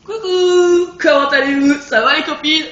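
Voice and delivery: high, loud sing-song hello to the spiders; mock friendly greeting. Gamer mockingly greets the spider enemies, high and sing-song. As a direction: tease them like old pals.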